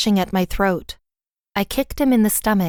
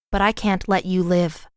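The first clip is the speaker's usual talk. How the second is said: calm. Acted. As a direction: say it calmly, without doubt. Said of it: "I said calmly".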